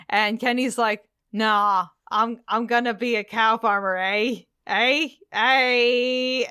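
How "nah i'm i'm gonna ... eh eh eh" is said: hammed-up Canadian farmer insisting, eh; Canadian farmer Kenny digging in, eh; put-on Canadian. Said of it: "I don't think your accent was Canadian".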